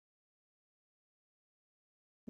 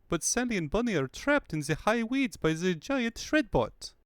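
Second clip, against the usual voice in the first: higher, urgent report; higher-pitched urgent report; 6 semitones higher than usual. Acted. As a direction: rush out the alarm.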